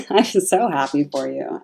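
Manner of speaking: happy laughing repeat. Real, not acted. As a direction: giggle as you say it again.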